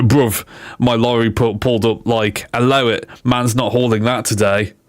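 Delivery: lightly voiced London roadman; roadman style. Streamer reading AI truck puns, light roadman impression. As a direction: put on a hint of roadman slang swagger. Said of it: "do my best Roadman style".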